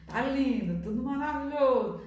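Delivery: mock the forced smile of someone hiding sadness; fake cheerful smile. Preacher mimics a sad person greeting a visitor, fake cheerful. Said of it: "deixa eu alargar o sorrisão".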